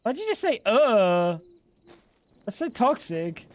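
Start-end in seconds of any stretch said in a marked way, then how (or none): 0.0-1.4 pitched way up in disbelief; high incredulous. Real, not acted. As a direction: squeak it out, baffled. Repeats higher, mocking her grunt.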